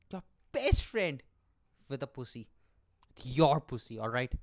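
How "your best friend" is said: "best" stretched out high for comic outrage; slow it down and lean hard on "best"; incredulous, dragging out the word "best"; drawn-out stress on best. Acted. Reveal repeated for effect.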